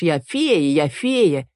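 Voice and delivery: lightly mimicking a girl's boast; mocking mimic. A narrator's reading. Марко mocks Эль, lightly parroting her boast. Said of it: "передразнил её Марко".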